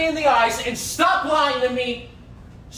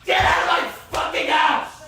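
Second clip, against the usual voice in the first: angry shouting. Real, not acted. Leaked argument, shouting at fiancee.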